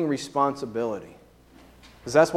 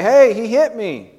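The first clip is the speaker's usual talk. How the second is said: high, loud complaint to mom and dad; child's indignant tattle, pitched up; tattling child; 8 semitones higher, 7 dB louder than usual. Acted. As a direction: run up and tell on your brother. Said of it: "that child comes running to mom and dad".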